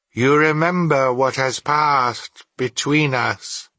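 solemn instructions rising to a ringing command; commanding ghost. Acted. The ghost gives Scrooge its parting orders, solemn command. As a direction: begin measured, end high and forceful.

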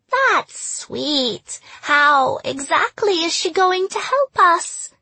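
high, slow, guttural and sing-song; Gollum voice. Acted. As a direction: hiss it out like Gollum, British lilt. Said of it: "She slipped into a guttural voice".

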